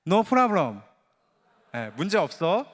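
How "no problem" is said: gentle demo. Shown as a demonstration. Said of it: "두 번째".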